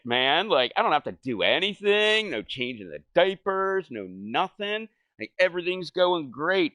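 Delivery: a loud, proud boast; smug bragging at its peak; cocky glee. Retold or imitated. Gloating about easy babysitting.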